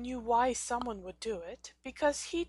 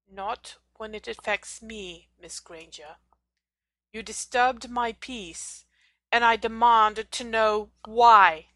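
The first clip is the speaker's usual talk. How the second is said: slow, rising to a loud demand; stern teacher voice turning furious; angry demand; 14 dB louder than usual. A narrator's reading. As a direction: lay down the demand, building louder. Snape angrily demands an answer.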